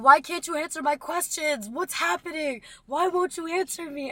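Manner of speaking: put-on high-pitched, insistent child's demands; re-enacted frantic questioning. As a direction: plead loudly for answers, as a kid. Acts child insisting on answers.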